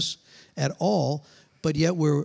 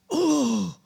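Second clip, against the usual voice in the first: high "oh" of sudden nausea; mock retching moan; imitated queasy groan; 7 semitones higher than usual. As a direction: groan as if about to be sick. Acts the same sudden sickness.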